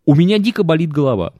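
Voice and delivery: lightly voiced complaining wife; a hint of a tired, whining wife; whiny wife voice. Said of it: "аргументы, которые она приводила".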